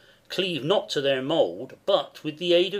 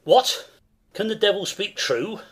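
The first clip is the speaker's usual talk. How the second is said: startled; 5 semitones higher, 4 dB louder than usual. Acted. Banquo startled by the news.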